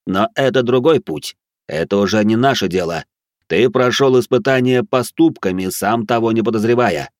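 honeyed guardian voice. Acted. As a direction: speak like sweet praise from above. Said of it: "Слова второго прозвучали как мёд для ушей". (медовый торжественный голос стража)

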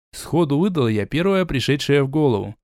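ordinary delivery

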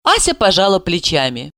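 ordinary delivery

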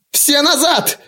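very high, cracking command; voice breaking. A narrator's reading. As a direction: push the pitch up until it cracks. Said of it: "На последних словах голос сорвался".

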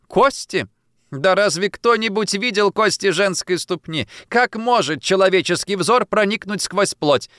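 can't believe such nonsense; astonished mother. Acted. Mother astonished by western doctor. (изумлённо и громко)

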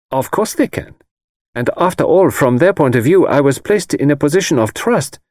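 put-on a confident young Swede shrugging it off; Greta's voice. Greta's voice in dialogue.

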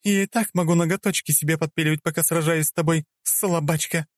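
высокий насмешливый женский голос; поддразни соперницу свысока; надменная царица. Acted. Царица Клео дразнит. (высокий голос насмешливой царицы)

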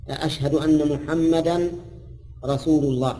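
slow, drawn-out chanted أشهد أن محمدا رسول الله; slow call to prayer. Shown as a demonstration. Teacher chants the line of the call to prayer slowly. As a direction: intone it slowly like the muezzin. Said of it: "بالنصب".

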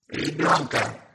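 slow, high squeaky monster demand; funny squeaky voice. A narrator's reading. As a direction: squeak it like a rubbery toy. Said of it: "Смешным песклявым голосом потребовало чудовище".

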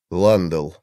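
usual speaking voice

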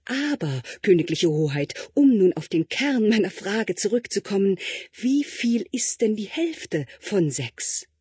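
butter up the prince with strained politeness; fawning tutor. Acted. Tutor fawning over the prince in his exam, lightly voiced.

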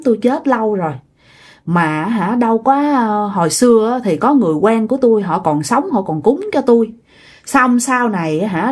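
mournful old ghost, mildly imitated; a touch of sorrow as she begs; sad ghost voice. Hungry old ghost telling her nephew her woes, mildly sad. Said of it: "cái giọng bả trở nên buồn buồn".

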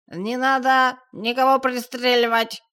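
громко, медленно, пьяно тянуть; пьяно заорать сверху; пьяный голос. A narrator's reading. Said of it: "раздался пьяный голос". (пьяный Селезнёв громко кричит с лестницы)

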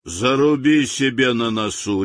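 a touch of a sharp rebuke; sharp remark. Acted. General scolds the insolent native sharply. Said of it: "резко заметил он".

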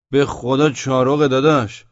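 slow, loud protest; loud insistence. A narrator's reading. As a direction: swear it loudly, dragging the words out. Insisting to a shouting sentry. (اصرار با صدای بلند)

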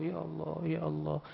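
soft, mock whimpering prayer; mock whining plea. Preacher mocking people who only pray when troubled, whiny. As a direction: imitate a whiny plea to God. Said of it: "Merengek-rengek berdoa sama Allah".

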